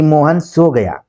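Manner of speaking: slow Mohan सो गया, drawn out with a final fall; exclamation of surprise. Shown as a demonstration. Teacher showing an exclamatory sentence, slow surprise. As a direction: stretch सो गया in astonishment. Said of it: "आश्चर्य सूचक वाक्य का प्रयोग".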